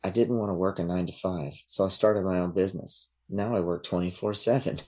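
flat robotic woman voice; lightly imitating a robotic voice. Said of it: "robotic woman voice saying".

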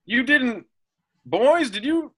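calling up from downstairs. Acted. Dad calling down shaft.

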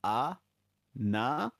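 "Anata" slowly, syllable by syllable, rising; staccato anata. Shown as a demonstration. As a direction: draw out "Anata" in separate beats. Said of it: "it is anata".

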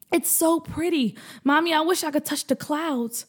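put-on high, dreamy child voice; wistful like a small kid; lightly voiced little boy. Boy tells mom he wishes to touch clouds, wistful.

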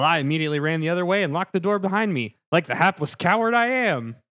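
lightly voiced villager recounting a grisly find; mildly dramatic peasant tale, rising at the end; villager Jim, horrified peasant. Plays Villager Jim's horrified account.

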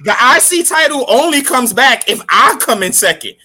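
loud laughing rant. Real, not acted.

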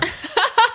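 a high, bright laugh bursting out; high burst of laughter. Real, not acted. Laughing while telling partner about the pen. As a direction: laugh high at your own joke.

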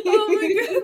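high, loud gasp of laughter; laughing. Real, not acted. Reacting to the cohost's joke, laughing. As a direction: let it burst out mid-laugh.

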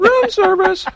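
high, loud ghostly call; ghost bellboy call. Retold or imitated. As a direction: sing out like a phantom bellboy. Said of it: "statement that room service has arrived".

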